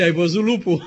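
laughing as he quotes it; joking folk saying. Retold or imitated. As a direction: chuckle through the old saying. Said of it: "Ce zicea lumea".

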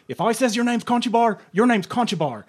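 retold bully captain. Retelling the captain who beat him, menacing. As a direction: quote the captain's threat. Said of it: "What he says to me then is".

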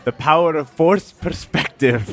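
lightly voiced low suave lover; purring latin lover. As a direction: purr it like a smooth seducer. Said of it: "hey, Raul".

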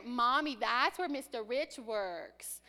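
put-on a child's eager pipe to her mother; lightly voiced little kid pointing out a building; child calling mommy. Child in the car telling mommy about the school, eager.

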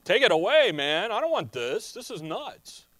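casual, exasperated plea, loud at the start; a lightly voiced, exasperated human Jesus; reluctant humanity. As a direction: push it away like any man would. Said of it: "what does his humanity want?".

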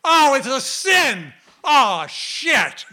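high, loud comic lament; mock dismay. Acted dismay over learning of sin.

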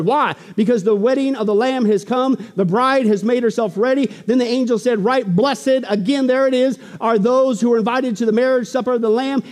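forceful, declamatory Bible reading; steady pulpit proclamation; preached scripture reading. Real, not acted. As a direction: proclaim the verses to the congregation.

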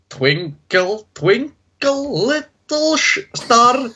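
put-on sing-song Scottish accent, rising high. Contestant on a talent show reciting in a Scottish accent. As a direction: lilt the rhyme in a Scottish accent. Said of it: "and you say it in Scottish".

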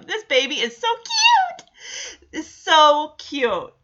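high, gushing so cute. Real, not acted. Cooing over the baby.

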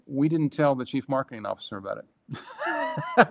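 sheepish laughing confession. Real, not acted. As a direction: laugh while you admit it. Laughing while confessing secret test.

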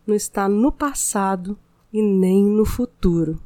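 soothing spa voice, unhurried pauses; mindfulness meditation. Acted. Meditation continues.

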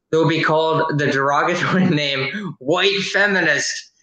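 reading through a stifled laugh; barely holding back laughter; trying not to laugh. Real, not acted. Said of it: "Gotta try not to laugh".

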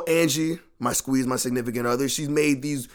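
ordinary talk, nothing marked

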